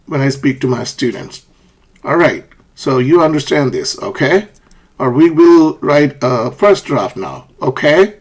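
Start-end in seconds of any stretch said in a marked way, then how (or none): 2.0-4.5 "okay" rising at the end; teacher's confirming "okay", turned upward; upward intonation. Shown as a demonstration. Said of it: "Or I say". 5.1-8.1 deliberate instruction, "okay" rising at the end; slow teacher request ending on a questioning "okay"; asking upward intonation. Shown as a demonstration. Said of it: "I'm asking them to".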